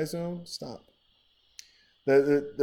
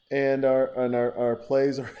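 laughing; 5 dB louder than usual. Real, not acted. Laughing about play counts.

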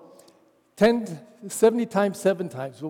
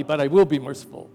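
grudging; 3 semitones lower, faster than usual. Retold or imitated. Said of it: "As if you can be merciful just by law".

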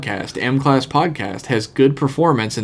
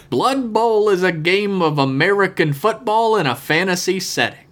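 a hint of a grand sports-film narrator; John Facenda voice; 3 semitones higher than usual. Host reads a listener's email as NFL Films narrator, lightly grand. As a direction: read it like a solemn football highlight reel.

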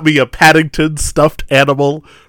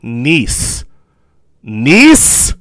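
Mister Feeny. Retold or imitated. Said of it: "And Mister Feeny goes".

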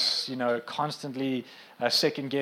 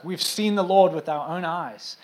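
higher, louder and slower, eager announcement; excited disciples; 4 semitones higher, 5 dB louder, slower than usual. Retold or imitated. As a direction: play the thrilled disciples bursting with news. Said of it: "they come telling Thomas".

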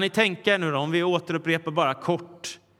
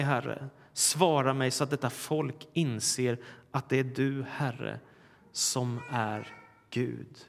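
solemn prayer; 3 semitones lower than usual. Acted. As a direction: pray it reverently, slowing down. Prays Elijah's prayer aloud.

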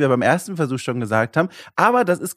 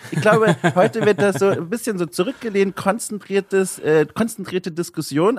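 hungover; 3 semitones higher than usual. Real, not acted. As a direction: sound worn out after a party. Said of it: "völlig anderen Energielevel".

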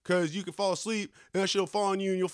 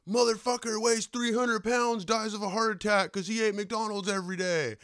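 a hint of a TV anchor reading the headline, higher; lightly put-on newscaster voice, pitched up; mock news headline; 4 semitones higher than usual. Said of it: "every fucking day on C N N".

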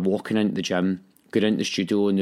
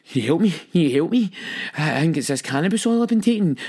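high, urgent plea for help; re-enacted panic; 8 semitones higher, 3 dB louder than usual. Man phoning his friend for help, acted panic. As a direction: act out a panicked phone call.

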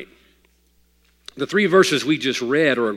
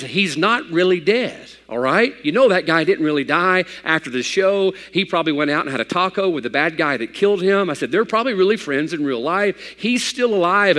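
reassuring family; 5 semitones higher than usual. Retold or imitated. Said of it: "I had to be the man".

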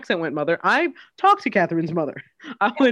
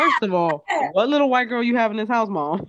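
higher, quick mock interrogation; playfully affronted, pitched up and fast; mock indignation; 5 semitones higher, 3 dB louder than usual. Co-host plays along confronting the mom, mock indignant.

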